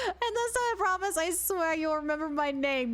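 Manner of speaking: lightly hammed-up, lovesick letter reading; lightly hammed-up love letter. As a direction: read it as a gushing admirer, half joking. Reads secret admirer's letter dramatically.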